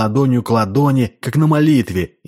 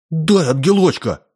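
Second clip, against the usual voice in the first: rough demand; 6 semitones higher than usual. A narrator's reading. Boy kneeling, hatefully demands the angel, high and rough. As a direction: bark out the demand on your knees. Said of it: "грубо потребовал".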